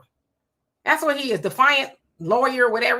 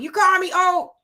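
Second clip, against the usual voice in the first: imitating dad; 9 semitones higher, 5 dB louder than usual. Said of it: "he'll call me".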